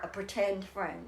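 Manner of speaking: patient, slowed "pretend friend"; slow repeat. Shown as a demonstration. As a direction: spell out pretend friend slowly for the listener. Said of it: "You had what?".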